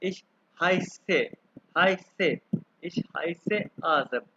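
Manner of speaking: से said with a long sharp ss; double s sound. Shown as a demonstration. Teacher making students hear the double s in heiße. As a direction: lean on the hissing ss in हाय से. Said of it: "आप गौर से सुने, आपको दो एस की आवाज आएगी".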